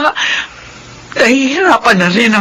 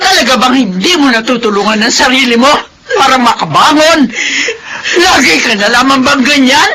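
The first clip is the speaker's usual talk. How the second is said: tearful scolding; 2 semitones higher than usual. Acted. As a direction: scold her daughter, voice crying. Mother scolds grieving daughter. (pagalit na umiiyak)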